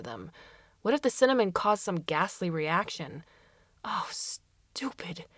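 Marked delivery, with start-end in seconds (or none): 3.8-5.3 slow self-scolding whisper. Acted. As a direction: hiss it at yourself slowly. Alberto scolds himself inwardly.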